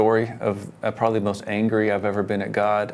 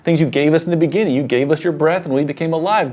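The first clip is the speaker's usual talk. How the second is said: pleading prayer, higher and louder, rushed; urgent, raised-voice plea to God; retold desperate prayer; 6 semitones higher, 4 dB louder than usual. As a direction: cry out to God for your son's breath. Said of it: "I'm crying out".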